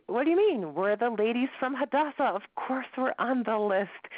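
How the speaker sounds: high, indignant disbelief; incredulous. Acted. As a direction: protest as if there's been a silly mistake. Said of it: "they look at him incredulously".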